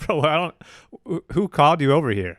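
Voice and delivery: high, indignant brush-off; who asked you, bro; annoyed. Retold or imitated. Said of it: "It's like".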